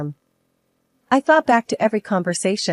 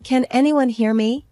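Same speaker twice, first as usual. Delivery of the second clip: yelled; 5 semitones higher than usual. A narrator's reading. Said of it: "I yelled over the wind".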